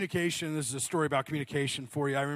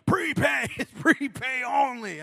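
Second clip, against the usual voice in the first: high, loud, slow exaggerated mouthing; charades explanation; 8 semitones higher, 5 dB louder, slower than usual. Homeless man mouths prepay to a supposedly deaf man, slow and loud. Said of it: "He's like".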